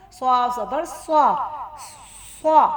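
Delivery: "स्वा" sounded heavy, not as a thin सा; heavy "swa". Shown as a demonstration. Teacher shows learners the thick letter swad, heavy "स्वा". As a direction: say "स्वा" with a thick, full-mouthed s. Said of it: "स्वाद मोटा है".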